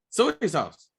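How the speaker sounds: "soy sauce" with soy stretched into so-ee; mimicked extra syllable. Friend teasing his pal's soy sauce, "soy" said as two syllables so-ee. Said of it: "You actually added a letter".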